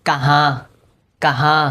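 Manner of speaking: কাহা with the final noon only nasalised, no n sound; কাহা ending in a nasal vowel, not a full n; nasal noon ghunna. Shown as a demonstration. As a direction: say কাহা letting the noon go into the nose. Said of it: "নাকে নাকে উচ্চারণ করতে হবে".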